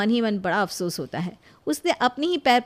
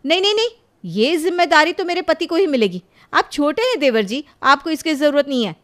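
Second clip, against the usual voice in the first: higher, louder eager interruption; hasty insistence; 4 semitones higher, 4 dB louder than usual. Acted. Sonam cuts in to claim the duty, eager loud insistence. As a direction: jump in to claim it for her husband. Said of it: "वो फौरन कहती है".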